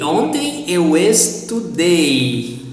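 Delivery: slow "estudei", leaning on the final "dei"; teacher's slow demo, stressing "dei" in "estudei"; stress on last syllable. Shown as a demonstration. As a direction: stretch the "dei" at the end of "estudei". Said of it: "stress on the last syllable".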